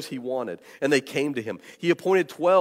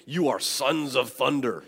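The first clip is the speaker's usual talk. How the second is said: slow, weighty proclamation; solemn naming. Retold or imitated. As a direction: bestow the name slowly and grandly. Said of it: "if he came and said".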